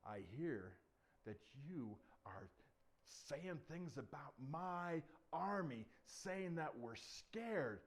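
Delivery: slow, measured royal rebuke; lightly voiced stern king. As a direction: draw out the accusation ponderously. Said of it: "the king says".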